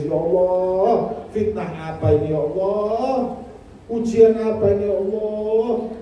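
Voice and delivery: a touch of sobbing prayer after being wronged; weeping prayer. Acted. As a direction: plead with God, stretching "Allah". Young man weeps after prayer.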